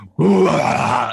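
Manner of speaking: loud, high bark like an angry dog. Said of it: "barks at you".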